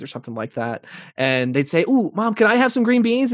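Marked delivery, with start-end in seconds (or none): 1.9-3.3 put-on high, pleading kid voice, a bit louder; imitating a begging child. Child begging mom for green beans, high pleading voice. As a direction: play the eager little kid asking Mom.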